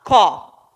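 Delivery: "có" alone, loud and firm; isolated stressed syllable. Shown as a demonstration. Teacher naming the penultimate syllable, loud isolated "có". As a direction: punch out "có" by itself. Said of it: "penúltima sílaba".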